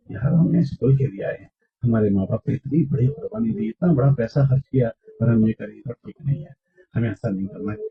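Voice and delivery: low, soft friendly reproof; gentle concern. Shown as a demonstration. Acting a friend reminding a slack schoolmate of parents' sacrifice, gently concerned. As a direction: quietly make a friend feel concern. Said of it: "تو اس کو فکر دلاؤ".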